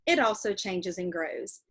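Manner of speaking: reading a letter from a novel to the class; steady read-aloud voice for kids. Acted. Teacher reading a letter in a novel to her class, read-aloud voice.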